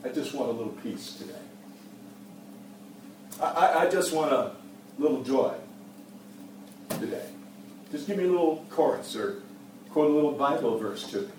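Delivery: mock complacent plea. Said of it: "we settle for".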